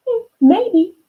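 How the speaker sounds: a high, teasing hmm, maybe; doubtful hmm. Acted. Marilyn musing back at her know-it-all brother, high and teasing. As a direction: sound unconvinced, toying with him.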